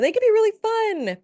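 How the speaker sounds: bright, bouncing delight; excited. Real, not acted. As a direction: sell the fun with a happy burst. Cheering how fun readings are.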